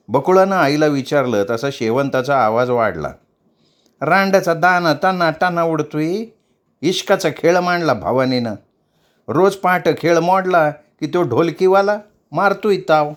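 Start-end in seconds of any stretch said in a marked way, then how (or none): 4.0-13.1 higher, angry tamasha mother; a touch of an irate older woman; scolding. Acted. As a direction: rail at the girl's affair. Shevanta's voice rises in anger.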